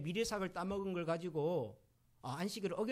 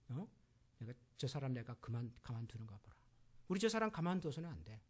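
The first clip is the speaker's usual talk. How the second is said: whispered plotting; 8 semitones lower, 5 dB quieter than usual. Retold or imitated. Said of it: "화가 나가지고 ... 막 속닥속닥해요".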